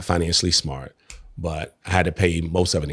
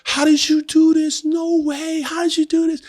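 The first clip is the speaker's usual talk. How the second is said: much higher, slow, disbelieving squeal; amazed wife; 4 dB louder than usual. Retold or imitated. Wife seeing truck from husband, much higher amazed voice. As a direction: act out her astonishment.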